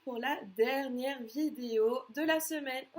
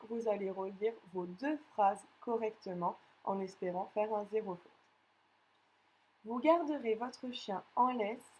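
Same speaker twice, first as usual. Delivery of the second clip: dictating. Acted. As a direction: read each chunk out for pupils to write. Teacher reads a dictation.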